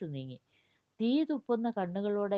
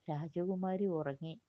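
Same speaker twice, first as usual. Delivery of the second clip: a slow, soft hint of a parrot; 4 dB quieter than usual. Sathyan answering the demon in the parrot's voice, slow and soft. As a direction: lightly mimic the parrot, slowly. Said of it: "തത്തയുടെ സ്വരത്തിൽ മറുപടി പറഞ്ഞത് സത്യനായിരുന്നു".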